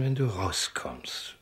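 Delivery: slow hushed whisper. Acted. Prisoner whispers to his cellmate, hushed. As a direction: lean in and whisper the question.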